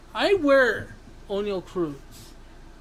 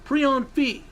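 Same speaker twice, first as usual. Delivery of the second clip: raised, ranting voice; yell; 4 semitones higher, 3 dB louder than usual. Real, not acted. Host announcing one more yell, raised ranting voice. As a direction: push the voice up into a rant. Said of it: "I'm gonna yell one more time".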